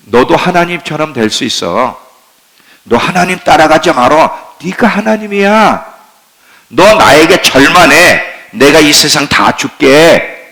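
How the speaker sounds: lightly voiced tempter, coaxing; a hint of a sly devil luring you in; preacher plays Satan coaxing the congregation; Satan's tempting voice. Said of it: "계속 사단은 계속 우리를 유혹해요".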